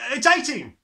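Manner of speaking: high, loud, panicky cry; frightened cry. A narrator's reading. Boy hastily corrects himself to the headmistress, loud panicked cry. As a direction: blurt it out in alarm. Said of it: "he cried".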